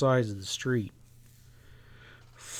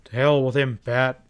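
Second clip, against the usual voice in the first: louder angry burst; angry outburst; 5 dB louder than usual. Acted. Ezra fed up with the greedy stableman, angry outburst. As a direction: snap it out, fed up. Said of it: "Ezra broke out angrily".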